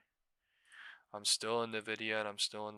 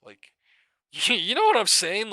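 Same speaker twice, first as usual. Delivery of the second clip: laughing; 11 semitones higher, 16 dB louder, slower than usual. Real, not acted. Laughs at the absurdity.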